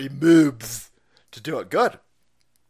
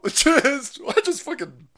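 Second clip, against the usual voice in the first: spit take; 9 semitones higher, 4 dB louder than usual. Real, not acted. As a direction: laugh that sprays spit. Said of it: "I just spit all over the place".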